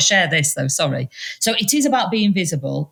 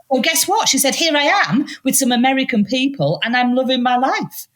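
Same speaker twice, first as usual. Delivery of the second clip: excited; 9 semitones higher than usual. Retold or imitated. Stranger telling her happy news.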